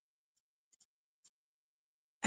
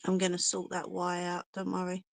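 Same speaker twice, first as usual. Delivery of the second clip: holding breath. Real, not acted. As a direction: speak while holding your breath. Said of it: "Been holding my breath here".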